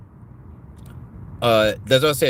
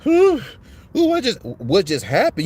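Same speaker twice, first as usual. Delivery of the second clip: dazed woman; 7 semitones higher, 4 dB louder than usual. Retold or imitated. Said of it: "she was like".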